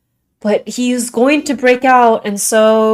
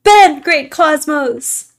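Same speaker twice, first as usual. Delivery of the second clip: dramatic announcer voice; 7 semitones higher, 4 dB louder, much slower than usual. Pretend. Reading a name in a game voice.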